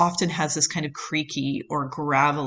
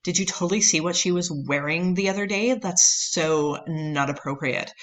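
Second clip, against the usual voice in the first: mock nineties Valley Girl gossip. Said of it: "the kind of Valley Girl speech".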